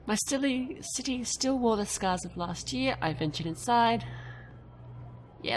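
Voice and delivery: steady storyteller read of the game text; story narration. Acted. Gamer reading the travel story to viewers, in a narrator voice. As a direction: read the passage like an audiobook.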